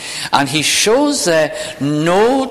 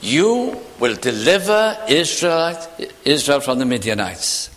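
firm. Acted. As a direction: say it firmly, drawing out the first words. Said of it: "so there is a firmness here".

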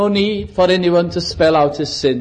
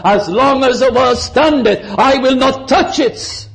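bold vow; 5 semitones higher than usual. Retold or imitated. Preacher voicing the vow boldly.

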